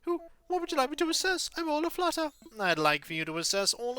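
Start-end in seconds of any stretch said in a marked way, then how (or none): 0.0-2.3 high, hooting owl who startles awake, then greets politely; be a flustered old owl curator, hooting and courteous; fussy owl curator. Acted. Owl curator welcoming Sandstar to the museum, hooting and polite.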